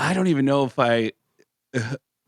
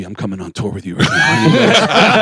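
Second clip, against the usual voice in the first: mock excited shout; 3 semitones lower, 6 dB louder than usual. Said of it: "and he goes".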